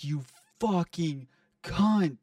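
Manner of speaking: slow, reined-in imitation of a furious scream; retold scream. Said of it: "I screamed it so loud".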